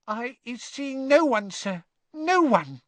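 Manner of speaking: very high, squeaky denial; gulp, then squeak it out, slowing at the end; frightened elf. A narrator's reading. Trembling elf answering Diggory, frightened squeak. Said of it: "began to tremble worse than ever".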